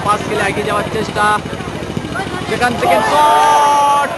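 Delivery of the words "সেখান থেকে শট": excited commentary. Real, not acted. Shot called out.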